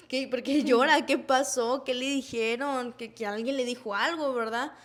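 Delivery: loud, urgent questioning; retold alarm. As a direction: fire off worried questions, retelling your reaction. Acted alarm at mother crying.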